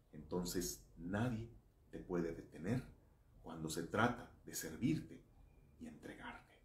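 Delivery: softly, with tender conviction; warm, soft sincere. Acted. Soft closing on God's love.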